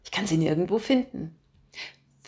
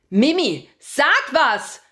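loud, higher desperate call; 8 semitones higher, 8 dB louder, much slower than usual. A narrator's reading. Father calls desperately to his daughter Mimi. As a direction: call out to the girl in alarm. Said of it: "rufe ich".

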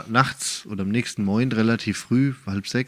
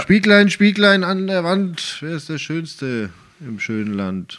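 fairy tale recital; 5 semitones higher, slower than usual. Pretend. Fairy tale mirror spell.

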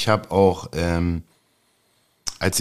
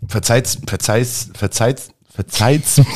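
too much caffeine; slower than usual. Real, not acted. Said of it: "ich hab zu viel Kaffee".

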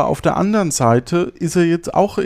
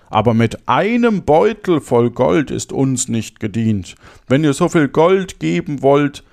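storyteller giving each phrase its weight; fairy-tale narration. Acted. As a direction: read it aloud with lively emphasis and clear diction. Reads a fairy tale aloud. (Märchen lebendig vorlesen)

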